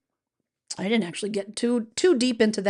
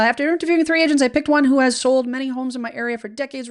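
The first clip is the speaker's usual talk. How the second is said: higher and louder, reading it with gusto; enthusiastic reread; 4 semitones higher, 8 dB louder, faster than usual. Real, not acted. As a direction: reread the good news proudly.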